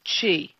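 Qi said as "chee"; Qi with a ch sound and long ee; correct Qi pronunciation. Shown as a demonstration. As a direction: pronounce Qi like "chee". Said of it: "the accurate thing is definitely".

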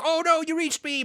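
high mock wail of defeat; dismayed goblin. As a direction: wail as the caught goblin, hammed up. Voices doomed goblin.

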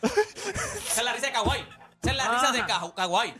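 talking through giggles, slow; laughing. Real, not acted. Friend laughing over the replayed clip of Kawhi's laugh. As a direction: laugh while pointing it out.

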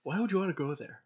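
yawning while speaking; stretched words mid-yawn; talking through a yawn. Real, not acted. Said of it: "I'm yawning so much".

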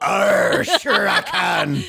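high, loud, slow pirate growl; failed Australian accent. Pretend. Producer attempting Australian, coming out as pirate. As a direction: try Australian and land on pirate. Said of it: "Can you do an Australian accent".

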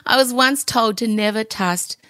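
pushing through the words while half laughing; a real laugh breaking into the line; teary laugh. Real, not acted.

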